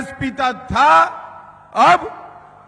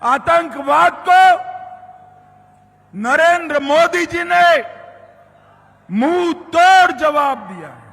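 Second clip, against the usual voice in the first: shouting rally speech; 3 semitones higher than usual. Real, not acted.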